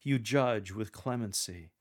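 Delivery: smiling, tender "You judge with clemency"; tender pastoral. Shown as a demonstration. Coach demonstrating the answer, tender and pastoral. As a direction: speak it like a gentle pastor. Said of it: "delivered with a smile and a tender and pastoral demeanor".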